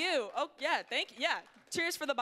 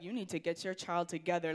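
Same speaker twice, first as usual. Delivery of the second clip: Karen; 6 semitones lower than usual. Retold or imitated. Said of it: "the Karens walking by are like".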